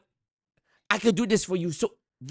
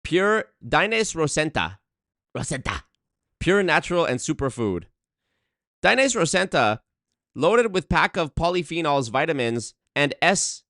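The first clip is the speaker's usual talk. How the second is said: mock Nigerian accent. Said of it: "in the Nigerian voice the whole time".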